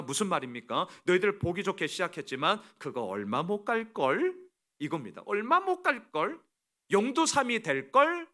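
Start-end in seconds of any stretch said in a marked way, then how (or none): 1.0-4.3 mildly taunting doubt; sarcastic jeer, lightly played; acted sneer. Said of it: "아주 비아냥 그리는 거예요". 5.3-8.3 mocking sing-song doubt; acted sneer. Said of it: "아주 비아냥 그리는 거예요".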